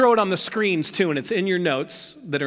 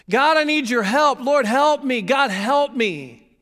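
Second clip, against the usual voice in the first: pleading prayer; 7 semitones higher, 4 dB louder, slower than usual. Acted. Mock general prayer.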